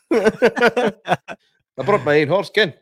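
high, playful voice as the extras; imagining the film extras being paid; joking mock extras. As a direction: ham it up, chuckling. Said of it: "that just made me chuckle".

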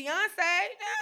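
normal talking voice

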